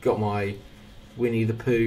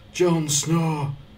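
mock brooding swordsman voice, pitched high. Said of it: "I won't be making lots of impressions".

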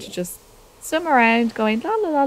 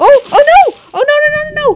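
very high, shrill, loud panicked squeals of fright; 11 dB louder than usual. Streamer spots a crocodile moving in the crevice, panicked squealing. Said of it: "I apologize for the squealing".

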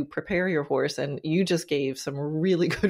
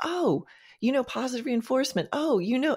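mock eager, excited, pitched-up, gushing enthusiastic burst; 8 semitones higher than usual. Retelling how a vet reacted to a calming cue: imitating an excited vet. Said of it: "the vet got all excited".

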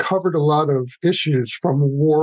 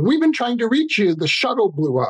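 play-acted, high-pitched screaming voice; 7 semitones higher than usual. Retelling how an editor shouted news when called in: imitating someone screaming. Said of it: "was screaming at me saying".

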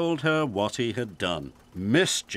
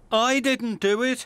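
protesting, very high-pitched; 12 semitones higher than usual. Reading a story, the accused answers his banksman's accusation; protesting. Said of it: "protested Ned".

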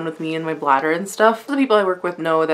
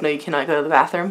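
plain

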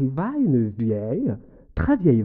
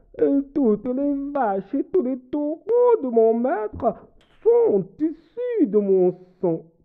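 put-on cow voice, much higher pitch; 8 semitones higher than usual.

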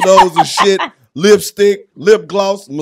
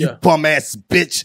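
contemptuous, scornful, condescending talking-down tone; 3 semitones lower, 3 dB quieter than usual. Describing someone's tone in a battle, acting it out with mock-condescending tone. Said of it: "Whole tone was condescending as fuck".

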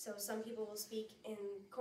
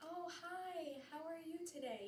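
put-on very slow, high-pitched baby talk; 7 semitones higher, 3 dB quieter than usual. Showing how they would greet a really little baby, in higher, slower baby talk. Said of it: "my voice obviously changed a lot, went up higher, and I slowed down".

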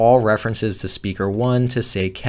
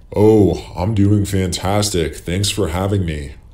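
lowered, deeper, pitched-down voice; 4 semitones lower than usual. Host voices both sides of a mock interview, answering as the guest in a lowered-pitch voice. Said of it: "I lowered my pitch a little bit on speaker two".

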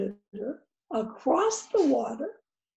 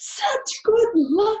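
exclaiming in a raised, high voice; 9 semitones higher, 7 dB louder than usual. Narrator reads the neighbors' reply to the farmer's news, exclaimed. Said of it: "the neighbors exclaimed".

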